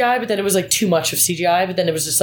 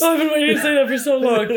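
beaming with joy; 8 semitones higher than usual. Real, not acted. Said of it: "how fucking happy she is".

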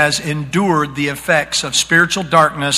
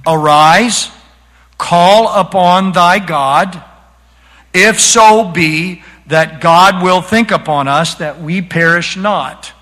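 scripture reading; slower than usual. Shown as a demonstration. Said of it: "let's read the command".

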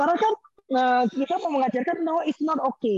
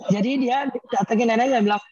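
ordinary talk, nothing marked

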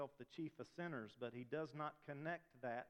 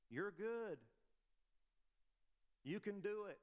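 high-pitched mock pep talk; strong affirmation; 7 semitones higher than usual. Preacher demonstrates affirmations to congregation, strong mock self-encouragement. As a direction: say it strong, like coaching yourself in the mirror. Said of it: "state them plainly and say them strong".

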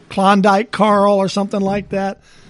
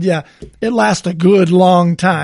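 gruff mountain man. Retold or imitated. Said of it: "he says something to the effect of".

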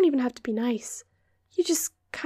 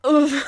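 disgusted "oof"; 2 semitones higher, 9 dB louder than usual. Real, not acted. Disgusted reaction to gross question.

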